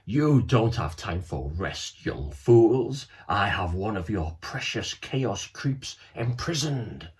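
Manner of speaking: slow, lightly sinister baddie taunt; a hint of a gloating cartoon villain; lightly voiced villain. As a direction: Snare taunts the boys from the screen, slow and gloating. Villain Snare taunts the boys.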